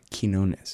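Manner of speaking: Quinones as keen-OH-nes, quiet try; Quinones, keen start. Shown as a demonstration. Host tries Pete's name, Quinones with keen. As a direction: repeat Quinones softly, keen first. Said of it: "like K E E N".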